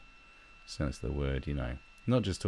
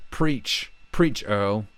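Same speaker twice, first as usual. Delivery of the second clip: mock fan cheering; 4 semitones higher, 6 dB louder, much slower than usual. Mimicking fans cheering on celebrity.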